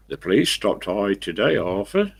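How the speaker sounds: lilting Somerset imitation; Somerset accent. Driver telling workmate about the police, Somerset accent. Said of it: "refer to themselves as I".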